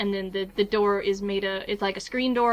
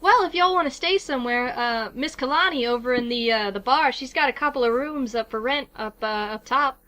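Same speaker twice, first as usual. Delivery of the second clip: lightly voiced southern florist; easy southern small-town chat; southern accent. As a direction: give local directions in a southern accent. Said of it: "doing a southern accent for these characters".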